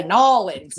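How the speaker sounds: "Nolans" run together, for New Orleans; Louisiana-style slurred "Nolans"; Louisiana pronunciation. Retold or imitated. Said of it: "it's like they say".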